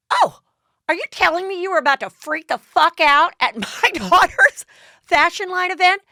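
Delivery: loud, high-pitched imitated tirade; over-the-top angry mother act; mock outrage. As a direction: explode in hammed-up indignation. Lisa Rinna's outraged confrontation, acted.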